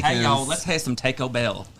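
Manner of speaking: lightly slowed Southern US drawl; Southern accent. Acted. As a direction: put on a touch of the American South. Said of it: "let me hear you guys from the South".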